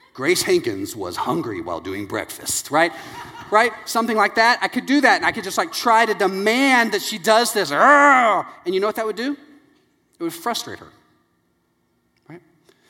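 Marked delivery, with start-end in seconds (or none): 0.2-2.7 very deep, low movie-trailer narrator voice. Speaker demonstrates one way to get her to do her work, low movie-trailer voice. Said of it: "Like I'm introducing a trailer".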